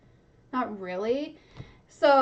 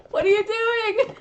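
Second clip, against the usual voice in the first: higher, louder disbelieving question; can't believe what he's doing; incredulous; 9 semitones higher, 5 dB louder than usual. Real, not acted. Reader asks Grover in disbelief, higher and louder.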